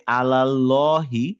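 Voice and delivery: আলাল্লাহি slowly, round only on the llo; slow model. Shown as a demonstration. Teacher pointing out an error, আলাল্লাহি said slowly. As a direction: say আলাল্লাহি with light first la, rounded second. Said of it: "লাটাকেও লো বানিয়ে ফেলছেন".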